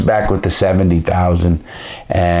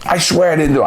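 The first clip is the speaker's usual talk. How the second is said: put-on much higher, frantic begging voice of the kid; retold begging, voiced far higher; mock pleading kid; 9 semitones higher, faster than usual. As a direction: imitate a terrified young man swearing innocence, pitched way up. Kid pleading under interrogation.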